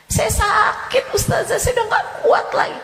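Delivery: high, loud, sing-song lament; wailing complaint. Retold or imitated. A follower crying out to the ustazah about neighbours, loud wailing. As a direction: wail about the cruel neighbours.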